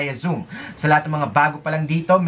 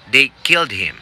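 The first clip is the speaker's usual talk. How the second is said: firm prompt read of "They killed him." with "killed" leaned on; test recording voice; 3 semitones lower, 4 dB louder than usual. Shown as a demonstration. Coach voicing the test prompt, firm and formal. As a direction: read it like the exam audio. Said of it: "a voice says".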